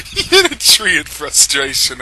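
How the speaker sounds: stifling a laugh. Real, not acted. Narrator cracking up over the broken tree. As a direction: giggle on the line. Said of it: "I'm trying not to laugh".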